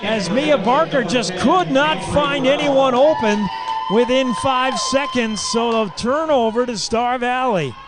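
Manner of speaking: announcer correcting himself mid-call, worked up; excited call. Real, not acted. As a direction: ride the surprise of the turnover. Confused call of a violation.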